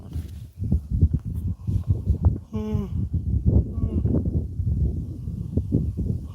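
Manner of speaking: long drawn-out tired sigh; sleepy sigh. Real, not acted. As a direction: let out a heavy sleepy sigh. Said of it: "If you can't tell, I'm falling asleep".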